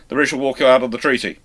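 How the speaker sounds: usual speaking voice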